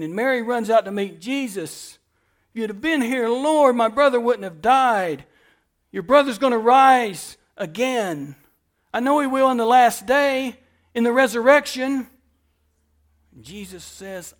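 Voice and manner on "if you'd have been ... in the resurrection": pleading grieving sister. Acted. Voicing Mary and Jesus dialogue.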